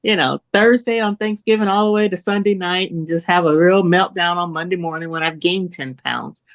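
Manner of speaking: high, gushing mock excitement that calms down by the end; self-mocking squeal over the holiday menu, settling back to normal; giddy food-lover impression. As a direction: mimic your old self giddy about holiday food. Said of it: "I've been that girl that's".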